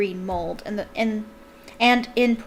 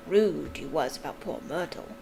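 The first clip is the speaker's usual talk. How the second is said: lightly voiced Peeves; 5 semitones lower, 5 dB quieter than usual. A narrator's reading. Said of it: "his eyes dancing".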